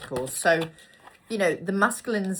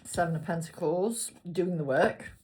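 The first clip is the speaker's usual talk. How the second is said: talking between hiccups; hiccuping. Real, not acted. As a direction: hiccups breaking the words. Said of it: "Excuse me, hiccuping".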